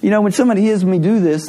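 demonstrating a put-on British accent. Shown as a demonstration. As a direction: keep up the mock British accent. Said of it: "I can do a British accent".

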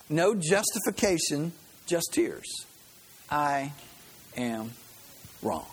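slow, earnest reading of a devotional quote; solemn reading. Acted. Preacher reading Max Lucado to congregation, slow and solemn. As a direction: let each phrase land slowly.

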